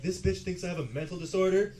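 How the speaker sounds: acted outrage at being insulted; mock indignation. Six-year-old reacting to mom's remark, mock indignant.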